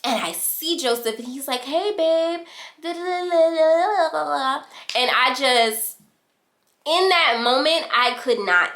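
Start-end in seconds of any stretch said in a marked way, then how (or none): 1.6-4.6 high-pitched, carefree mimicry; high singsong mock "hey babe"; mock boyfriend greeting. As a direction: imitate a breezy greeting trailing into babble. Boyfriend greets her in retelling.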